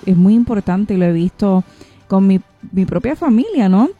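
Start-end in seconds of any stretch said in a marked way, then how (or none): none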